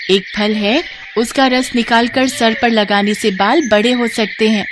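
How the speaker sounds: lightly voiced comforting bird; kindly bird. Bird comforts outcast woman with a cure, kindly. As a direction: console her as a helpful little bird.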